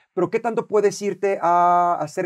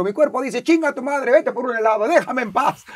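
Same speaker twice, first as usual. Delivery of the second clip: higher, cheeky put-on voice; voice of his body; 6 semitones higher, 3 dB louder than usual. His own body telling him to quit, cheeky and higher. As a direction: let the lazy body talk back. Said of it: "Yo siempre digo".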